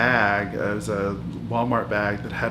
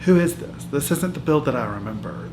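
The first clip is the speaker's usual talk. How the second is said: outraged wife asking who her husband is; incredulous outburst; 3 semitones higher than usual. Real, not acted. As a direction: blurt it out in disbelief. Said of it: "outburst of disbelief".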